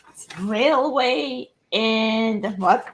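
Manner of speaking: hoarse, lost voice after coughing; rough, worn-out voice from coughing. Real, not acted. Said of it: "so I lost my voice".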